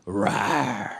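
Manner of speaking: low fake monster growl to scare a kid; mock growl. Comedian growls at a toddler in mock anger. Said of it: "performative anger".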